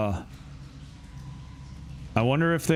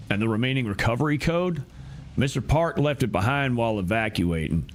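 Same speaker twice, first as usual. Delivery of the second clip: quicker, lightly voiced game character. Streamer voices a game character to differentiate, lightly acted. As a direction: give the line its own voice to set it apart. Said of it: "I'm gonna do something with these voices just to differentiate".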